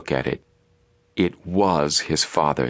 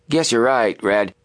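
hasty concession; 6 semitones higher, 3 dB louder than usual. A narrator's reading. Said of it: "Klein conceded hastily".

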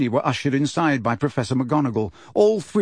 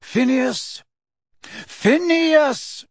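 high calling shout; 12 semitones higher, much slower than usual. Acted. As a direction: call his name across the room. Portraits calling Phineas.

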